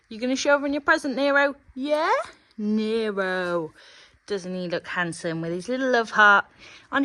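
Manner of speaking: loud proud presentation to the crowd; projected show-ring introduction; playful announcer. Pretend. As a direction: present the big baby with mock fanfare. Showing off the horse like an announcer.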